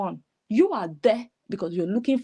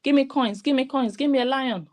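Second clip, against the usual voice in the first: auction shout; 4 semitones higher than usual. Retold or imitated. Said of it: "Who has been shouting? Like someone doing auction".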